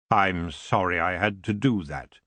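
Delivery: low and unhurried, a courtly greeting; elf king. Acted. Elf king greeting Tiffany, low and lordly.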